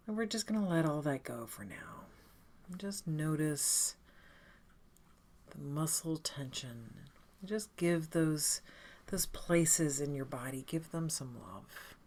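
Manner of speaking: calm, unhurried guided meditation with long pauses; lightly soothing meditation leader, leaving space between phrases. Acted. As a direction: gently guide them into breath and body.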